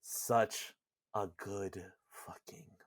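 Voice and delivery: hushed, breath-only reverence; awed whisper. Real, not acted. Podcaster moved by the game's moment, awed whisper. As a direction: drop to a whisper, savouring it. Awed aside on a moving scene.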